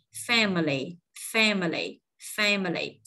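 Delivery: "family" as FAM-uh-lee, stress on FAM; three measured takes of "family", falling away after FAM; weight the first syllable of "family". Shown as a demonstration. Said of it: "nâng một tông giọng tại vì dấu nhấn".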